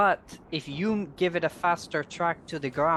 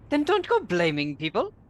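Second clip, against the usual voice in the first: usual speaking voice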